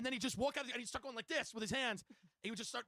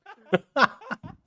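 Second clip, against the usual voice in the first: big, high belly laugh; loud burst of laughter; 5 semitones higher, 17 dB louder than usual. Real, not acted. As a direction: crack up at your own impression. Cracks up at own impression.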